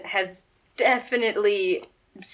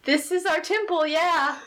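higher, affronted temple guard; huffy cultist defending his home; offended cultist; 6 semitones higher than usual. Acted.

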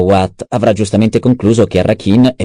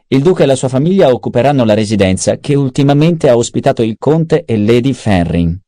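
a slightly higher, lively voice for Peter's lines; lightly voiced schemer; 6 semitones higher than usual. Adviser briefing the baron on the duke's possible escape, lightly voiced. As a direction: lay out the options with lifted pitch.

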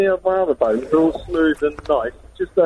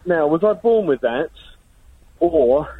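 panting after running for a train; short of breath, gasping between words; slower than usual. Real, not acted. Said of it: "sorry, I'm out of breath".

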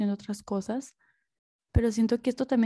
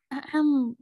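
throat clearing; 4 semitones higher than usual. Real, not acted. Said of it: "es que casi me ahogaba".

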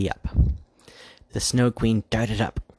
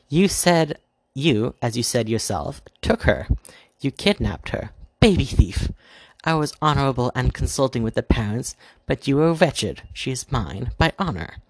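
higher and louder, indignant; heated argument; 4 semitones higher, 3 dB louder than usual. Acted. White Queen accusing the Dark Queen, heated and higher. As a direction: accuse her hotly of theft. Heated quarrel over the baby.

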